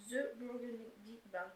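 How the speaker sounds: slow, careful English in a French accent. Real, not acted. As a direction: sound out English slowly with French sounds. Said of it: "Désolée pour mon accent anglais". (accent français en anglais, lentement)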